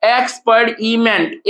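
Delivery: एक्सपर्ट इमेंट broken slowly into syllables. Shown as a demonstration. Teacher counting syllables for students, एक्सपर्ट इमेंट slowly split up. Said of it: "number of syllable कितना हो गया".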